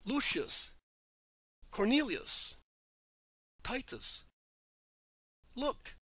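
names called high across a square; calling out. A narrator's reading. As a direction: call to friends far away, pitch rising. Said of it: "who then calls".

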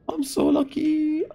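amazed relief. Real, not acted. Just survived.

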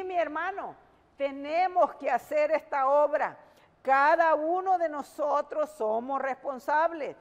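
preacher driving each phrase home with pauses; urgent sermon delivery with weighted key words; emphatic preaching. Real, not acted.

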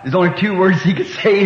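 words broken by a chuckle; laughing. Real, not acted. Preacher amused telling the congregation the punchline. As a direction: laugh as you tell it.

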